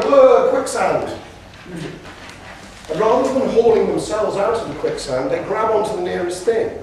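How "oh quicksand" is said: loud, high, drawn-out cry of dismay; a playful panicked wail; mock alarm. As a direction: cry out as if suddenly sinking, hammed up. Acts out team landing in trouble.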